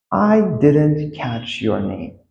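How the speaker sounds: slow, drawn-out words; slow teaching demo; slow model. Shown as a demonstration. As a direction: stretch the phrase for learners. Teacher models phrase slowly.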